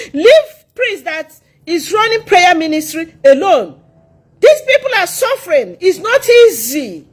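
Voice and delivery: high-pitched, aggrieved self-defence; indignant rebuke. Real, not acted. Answering those who called her a fake mother, indignantly. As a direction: tell off your accusers with rising indignation.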